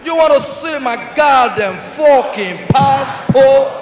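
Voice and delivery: slow mock-American outburst; shouting like American. Nigerian traveller copying the American, drawn-out mock shout. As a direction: stretch out the borrowed American outrage. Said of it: "Now shout again".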